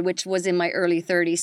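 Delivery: ordinary delivery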